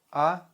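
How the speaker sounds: plain open "A" with no y-glide; hard vowel. Shown as a demonstration. Teacher models vowels for learners, hard "A". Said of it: "pronounce them like counterparts".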